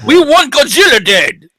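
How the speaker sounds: put-on Asian accent. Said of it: "your Asian accent".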